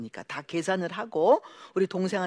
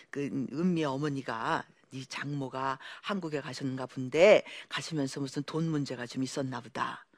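low, soft, calm voicing of an old mother; a hint of a kindly mother-in-law advising gently; gentle mother-in-law; 5 semitones lower, 3 dB quieter than usual. Mother-in-law quietly telling her son to repay the debt, soft and calm.

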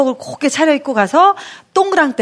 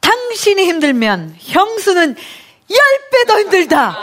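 stern husband; 6 semitones higher than usual. Retold or imitated. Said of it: "평생 잊을 수 없던 그 한마디".

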